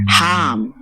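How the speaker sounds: "Ham" drawn out like a sigh; "Ham" as an open, sighing syllable. Shown as a demonstration. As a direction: let "Ham" go on a long exhale. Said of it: "like a sigh from the deepest part of you".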